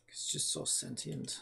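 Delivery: slow, hushed mock awe; awed whisper. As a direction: whisper it like a revelation.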